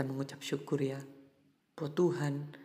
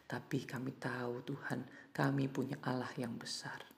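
prayer. Real, not acted. Leads a closing prayer.

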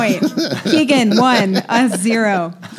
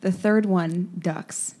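slow deadpan; 6 dB quieter, much slower than usual. Shown as a demonstration.

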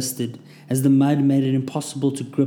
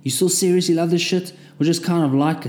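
squeaking; 5 semitones higher, 3 dB louder than usual. A narrator's reading. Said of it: "I squeaked".

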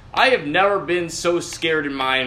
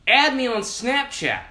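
mock friendly invite; 9 semitones higher, slower than usual. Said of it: "people will tell you".

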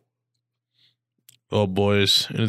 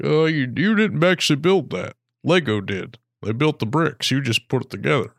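lightly voiced Obama, a bit higher; a hint of Obama lecturing a kid; Obama impression; 5 semitones higher than usual. Mimicking Obama scolding a kid over Legos. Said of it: "I'm trying to work on my Obama impression".

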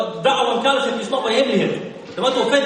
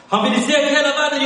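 rising emphatic repeat; 5 semitones higher, faster than usual. Acted. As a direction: drive the repeat up with fervour. Preacher repeats line for emphasis.

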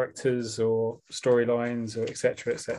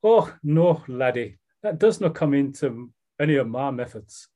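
put-on South East London take on a Scottish accent; attempted Scottish accent; 2 semitones higher, 4 dB louder than usual. Podcaster voicing Hamish answering Roy, shaky attempt at a Scottish accent. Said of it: "I'm gonna do a Scottish accent".

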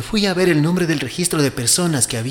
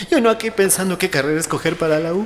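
riendo; 3 semitones higher, 4 dB louder, faster than usual. Acted. Se ríe de sí mismo.

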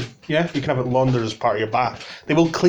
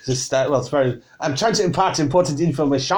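exasperated, hammed-up French accent; struggling mock-French, stretched out at the finish; difficult French accent; 3 semitones higher than usual. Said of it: "It's difficult to do with this accent".

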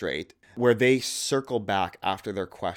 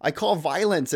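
pleading prophet; 5 semitones higher than usual. Retold or imitated. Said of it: "he says".

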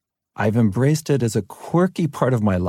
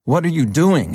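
higher, mildly angry imitation of a vice principal; retold furious outburst; 8 semitones higher, 4 dB louder than usual. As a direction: imitate an angry coach's demand, pitched up. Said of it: "He was furious".

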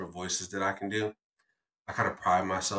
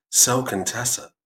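full radio voice. Shown as a demonstration. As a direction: ham up the late-night radio DJ. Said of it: "go into my full radio voice".

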